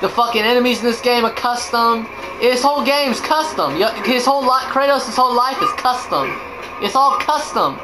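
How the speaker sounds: hyped gushing. Pretend. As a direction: gush about it like a fan. Mocking Kickstarter pitch, hyped.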